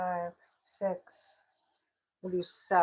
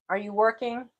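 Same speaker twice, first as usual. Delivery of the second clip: calling out again to Tracy; 3 semitones higher, 4 dB louder than usual. Real, not acted. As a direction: call out across the house.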